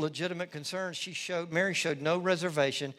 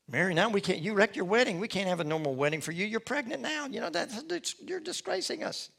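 a family member berating her, climbing higher; reproachful relative; 5 semitones higher than usual. Acted. Family rebuking pregnant Mary.

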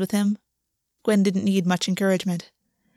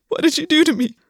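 high-pitched, wavering plea; high, unsteady; 6 semitones higher than usual. A narrator's reading. Gwen held by August on the bathroom floor, high and unsteady. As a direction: push the voice up high, barely holding together. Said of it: "his voice high, unsteady".

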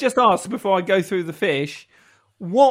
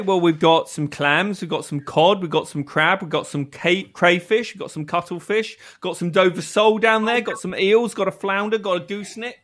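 repetitive listing rhythm; recited list of wares, evenly paced; reading from a list. Pretend. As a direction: rattle off the stock item by item. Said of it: "like you've read from a list of fish".

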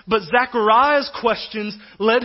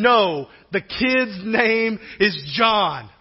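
slow, drawn-out insistence, a touch of desperation; desperate insistence; slower than usual. Acted. Preacher voicing Zechariah overruling the in-laws, mildly desperate. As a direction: insist with each word stretched out. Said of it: "desperately saying".

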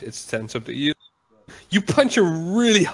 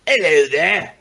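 a touch higher, slow, easy greeting; lightly voiced newcomer; 4 semitones higher, 4 dB louder, slower than usual. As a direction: greet him calmly as a new arrival. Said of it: "he goes like".

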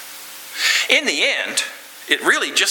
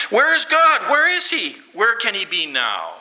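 crying out; 7 semitones higher than usual. Retold or imitated. Pastor acting out Nietzsche's anguished cry to the congregation. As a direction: shout the question into the void. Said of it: "he cried out".

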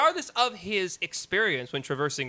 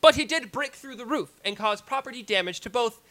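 courtroom lawyer; 2 semitones higher than usual. Acted. Closing argument continued.

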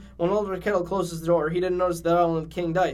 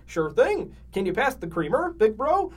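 Goofy voice; 4 semitones higher than usual. Acted. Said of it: "the Goofy voice works for Mugman".

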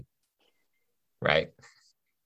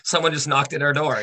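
amazed whisper-like surprise; 6 semitones higher, 3 dB louder than usual. Retold or imitated. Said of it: "I'm like".

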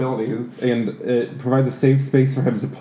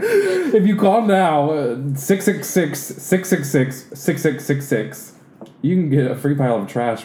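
mock infomercial; 3 semitones higher than usual. Mock TV ad phone number.

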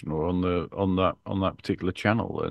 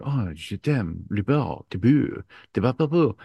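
mock French perfume ad. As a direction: parody a French fragrance ad. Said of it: "and they go".

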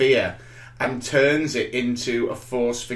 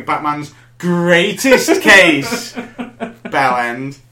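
laughing one-upmanship; 5 dB louder, much slower than usual. Retold or imitated. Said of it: "And Tom King going".

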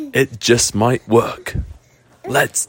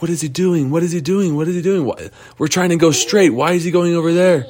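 lightly raised, confused shark voices; puzzled sharks; 7 semitones higher, faster than usual. Acted. Racing sharks wondering aloud why Laws swims away, lightly raised. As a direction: sound baffled, like a crowd of little fish.

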